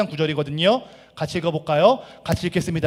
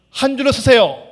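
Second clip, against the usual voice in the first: calling out; 7 semitones higher, 8 dB louder than usual. Acted. Boss ordering workers to line up.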